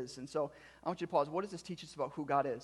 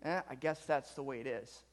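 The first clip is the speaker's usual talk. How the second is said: resigned shrug; 2 semitones lower than usual. Acted. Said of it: "just kinda say".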